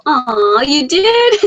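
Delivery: high, squeaky puppy imitation. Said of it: "I heard your puppy go".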